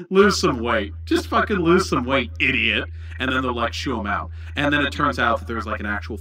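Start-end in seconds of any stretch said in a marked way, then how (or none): 0.1-2.9 louder, curt brush-off; dismissive doctor. Retold or imitated. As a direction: snap at the patient impatiently.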